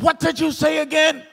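high-pitched double take; acted amazed demand to hear it; astonished question. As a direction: retell it with the voice leaping up in disbelief. Astonished, asks nurse to repeat.

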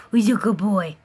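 hushed doting whisper. Real, not acted. Cooing at pet.

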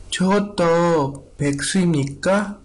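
reading Anthony in a put-on voice; other voice. Shown as a demonstration. Teacher switching voices to read the dialogue. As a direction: voice a different character for the line. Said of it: "Voy a tratar de leerlo en otra voz".

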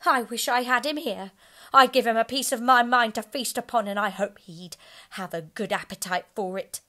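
Missus Cratchit angry. A narrator's reading. The wife scolding about Scrooge, loud and indignant. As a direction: spit out her scorn for Scrooge. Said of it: "cried Missus Cratchit, reddening".

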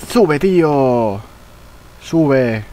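drawn-out pleading shout; will the character up the wall, slow and loud; urgent shout. Real, not acted. Player begs his character to climb, slow pleading shout.

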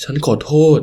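a touch of tears in the apology; apologize, close to crying; tearful apology. Acted. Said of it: "พร่ำคำขอโทษทั้งน้ำตา". (ขอโทษทั้งน้ำตาเบาๆ)

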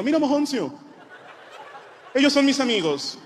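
menacing villain. Retold or imitated. Villain threat to the boy.

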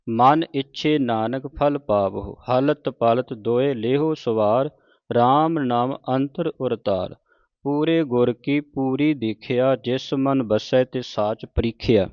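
slow, measured Gurbani reading; measured devotional recitation; scripture recitation. Acted. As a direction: recite each phrase deliberately, drawing out the vowels.

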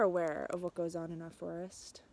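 a secret whispered by the forest; whispered aside. A narrator's reading. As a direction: let the trees whisper this to the reader. Forest narrator confides to listener.

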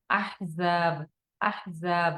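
"আহজাব"-এর জা দাঁতের গোড়ায় জিহ্বা লাগিয়ে স্পষ্ট; জা-র মাখরাজ ঠিক রেখে ধীরে পড়ুন; careful za. Shown as a demonstration. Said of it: "জাটা ভালো করে পড়বো". (জায়ের মাখরাজ ঠিক করে পড়া)

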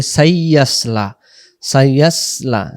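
"সাইয়াসলা" run together as "sai-yas-la"; common mispronunciation. Retold or imitated. Teacher imitating learners' error, "সাইয়াসলা" with diphthong "sai". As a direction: glide into "সাইয়াসলা" with a thin, unrounded yas. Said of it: "অনেকে আমরা উচ্চারণ করি".

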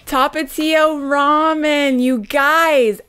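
slow, high and loud with joy; excited. Real, not acted. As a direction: savor the name, thrilled. Showing the ramen she wanted.

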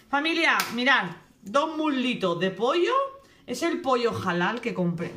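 calling out loud and high. Real, not acted. Showing her followers the chicken, calling out loudly. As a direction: announce it to the whole house. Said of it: "me tienen que escuchar aquí a grito pelado".

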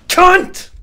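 real screamed insult; furious scream. Real, not acted. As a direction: drag every word out in rage. This is a ragey episode.

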